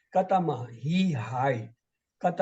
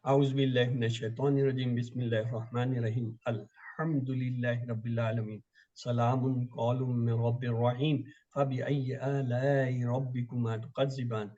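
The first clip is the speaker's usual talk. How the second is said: quick closing recitation; much faster than usual. Real, not acted.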